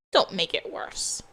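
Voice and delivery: hushed, voiceless warning; tense whisper to her daughter; whispered plea. Acted. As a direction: drop to a whisper mid-argument. Heated quarrel between mother and daughter.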